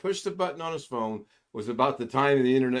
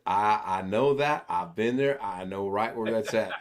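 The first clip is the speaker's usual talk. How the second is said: imitating friend; 3 semitones lower than usual. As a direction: drag the words out like the friend. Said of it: "he talks like this".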